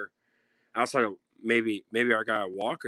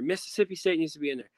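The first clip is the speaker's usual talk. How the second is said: mock casual fan; 5 semitones higher, faster than usual. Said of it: "the casual fans are not gonna be like".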